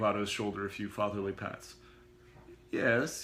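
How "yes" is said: quavered. Acted. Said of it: "he quavered".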